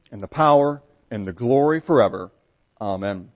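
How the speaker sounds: prayer. Real, not acted. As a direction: lead the Lord's Prayer reverently. Congregation prayer, Lord's Prayer.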